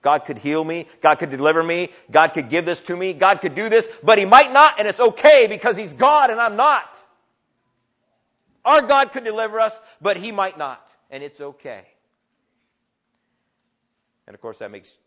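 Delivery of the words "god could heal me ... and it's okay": from plain up to much louder, higher faith cry, then settling down; building declaration. Acted. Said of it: "They say".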